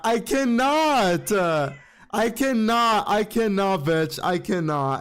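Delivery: drawn-out fangirl swooning; overwhelmed. Retold or imitated. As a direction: stretch each phrase as if you can't cope. Acts out her overwhelmed fangirl reaction.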